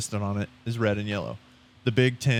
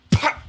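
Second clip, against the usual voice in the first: fireworks noise; 4 dB louder than usual. Pretend. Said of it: "Wait, I got it".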